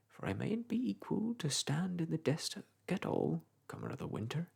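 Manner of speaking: chatty old countryman, lightly voiced; a touch of a gossiping old clerk; old village clerk. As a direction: ramble on like a garrulous old parish clerk. Macey's voice again.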